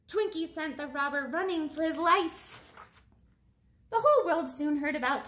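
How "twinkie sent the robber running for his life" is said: lively storybook read-aloud; animated picture-book voice; reading to children. Acted. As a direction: read it to a class of kids.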